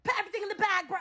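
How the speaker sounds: mock London robber. Mocking Brits getting robbed, British accent demand. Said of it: "Y'all really be letting somebody run up on you".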